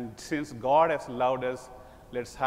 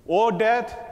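O death called out high and loud; first O death flung out loud; ringing proclamation; 5 semitones higher, 6 dB louder than usual. Acted. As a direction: cry out O death like a challenge. Preacher declaiming scripture.

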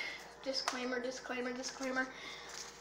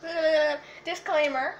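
burned tongue; 3 semitones higher, 4 dB louder, slower than usual. Real, not acted. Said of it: "My tongue is burning".

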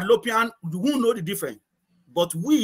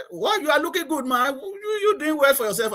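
lightly raised admiring colleague voice, higher; a hint of colleagues marvelling, pitched up; impressed colleagues; 8 semitones higher than usual. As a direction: tease him like an impressed old workmate. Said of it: "they were looking at me and they".

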